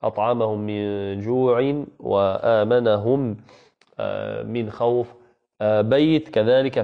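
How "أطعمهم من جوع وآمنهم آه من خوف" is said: slow recited أطعمهم من جوع وآمنهم; slow, careful tajweed recitation; Quran recitation. Shown as a demonstration. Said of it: "ضربنا له مثالًا".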